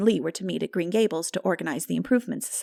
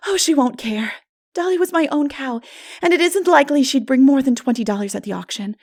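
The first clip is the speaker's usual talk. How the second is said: put-on high, louder, carefree young girl; breezy girl; 6 semitones higher, 6 dB louder than usual. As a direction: shrug it off with bright confidence. Anne's voice, breezy.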